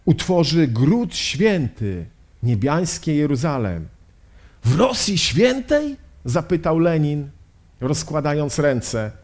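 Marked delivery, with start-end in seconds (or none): 4.6-6.0 incredulous question. Acted. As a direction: pitch leaping up in disbelief. Acted incredulous question of Lenin. (zdumione, niedowierzające pytanie)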